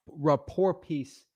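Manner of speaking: "rapport piece" drawn out slowly, falling at the end; slow, deliberate. Shown as a demonstration. Practising his line for the seller, slowly. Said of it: "that's probably what I'd say".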